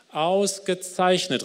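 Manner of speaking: höher und langsam gedehntes Lob; erfreuter Ausruf. Acted. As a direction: lob den Diener überschwänglich. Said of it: "rief der König". (König lobt den ersten Diener, freudig ausrufend)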